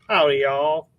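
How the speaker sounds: a light Southern twang; demonstrating an American Southern accent. Shown as a demonstration. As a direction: give a sample Southern US greeting. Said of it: "our southern accent".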